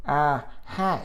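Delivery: mock American accent, through the nose; lightly put-on nasal American greeting; nasally American accent. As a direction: imitate a bad, really nasal American accent. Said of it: "It was, like, really nasally".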